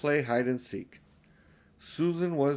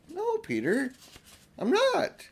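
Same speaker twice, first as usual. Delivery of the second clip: put-on higher, eager girl's voice; Lucy protesting, higher and urgent; young Lucy; slower than usual. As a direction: plead like an earnest little girl.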